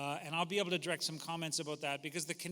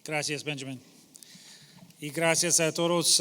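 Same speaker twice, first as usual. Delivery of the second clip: American accent Spanish. Real, not acted. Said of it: "mi español, uh, no es, uh, bien".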